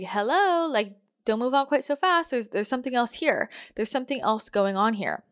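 playful universe voice. Pretend. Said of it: "the universe is like".

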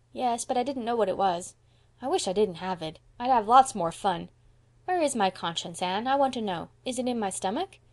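put-on high, curious, put-out child; little boy Davy. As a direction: pester with questions like a small boy.

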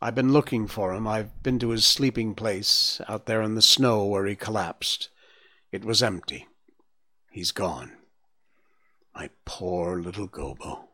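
sad, fading lament. Acted. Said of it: "she lamented".

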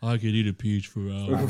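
chewing while talking. Pretend. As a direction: talk through a deliberately gross mouthful. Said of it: "stop chewing on the mic".

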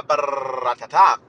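long tongue-trill ending in sharp taps; playful drumroll with the mouth; rolled trill noise. Real, not acted. Playful noise before starting story.

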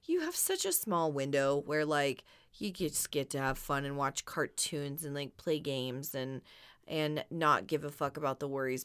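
put-on easygoing, about kids' carefree time. Mother telling her kids about childhood, gently. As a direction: talk softly and slowly to the kids. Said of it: "I'm like".

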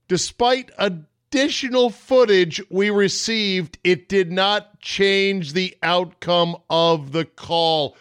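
slow, formal referee mic voice; mock referee announcement. Ref at the mic announcing the call, slow and formal. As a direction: intone it like the ref at the microphone. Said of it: "comes back and says".

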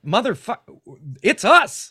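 high, loud indignant yell; mock outrage at TikTok; outraged disbelief. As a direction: throw it out in shocked disbelief. Outraged quote of themselves.

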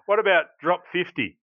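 military radio command; crackly military radio. Shown as a demonstration. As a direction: call it like a gunner on radio. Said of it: "This is military now".

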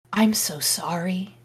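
soft, shy whisper. Acted. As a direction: say it timidly, barely voiced. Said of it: "he said in a shy voice".

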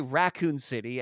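"Raccoon City" in everyday American pronunciation; American accent. Shown as a demonstration. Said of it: "as we would say in American accent".

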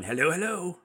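lightly Australian "Hello, hello" greeting; imitating the accent. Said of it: "in high school going".

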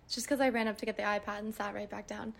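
winded after running upstairs; breathless, catching her breath. Real, not acted. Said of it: "I'm out of breath".

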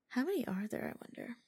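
whispered, half to herself. Real, not acted. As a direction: breathe the question out softly. Wondering aloud in a whisper.

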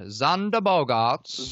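slow, formal butler delivery. Pretend. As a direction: announce the name like a stately butler. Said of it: "I have to say it like a butler".

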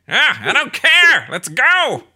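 loud, high villain squawk; Skeletor. Retold or imitated. Villain ordering freezing kids onward, loud impatient squawk. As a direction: snap it like a cartoon tyrant. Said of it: "He's just like".

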